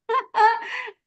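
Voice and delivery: short high chuckle. Real, not acted. Amused at naming the active observer, chuckling. Laughs at own coined term.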